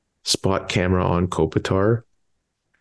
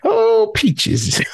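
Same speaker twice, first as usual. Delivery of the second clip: squeaky falsetto exclamation, far higher; silly high voice. Acted. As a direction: pop into a mock falsetto squeal. Hamming up a silly voice.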